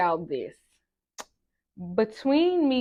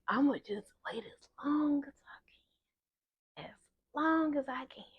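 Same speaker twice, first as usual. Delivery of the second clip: high-pitched stalling; 7 semitones higher, 6 dB quieter than usual. Retold or imitated. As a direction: stall sweetly, stretching out the words. Acting out stalling on her calling.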